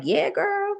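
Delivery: put-on chatting with a girlfriend about the job, excited; girlfriend gush. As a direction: hype it up to your bestie. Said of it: "You must be speaking to people like".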